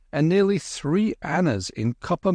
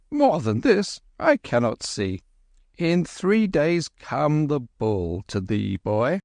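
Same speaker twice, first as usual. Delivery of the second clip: put-on old priest voice; 5 semitones higher than usual. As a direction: intone it like a village priest. Priest's prophecy, old holy man.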